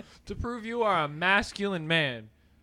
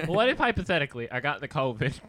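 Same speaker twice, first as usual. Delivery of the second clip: nasally voice; 3 dB louder, faster than usual. Shown as a demonstration. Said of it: "you gotta do the nasally voice".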